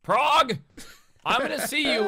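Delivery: loud playful shout; calling out. Real, not acted. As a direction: call out a friend's name. Calling out to absent friend.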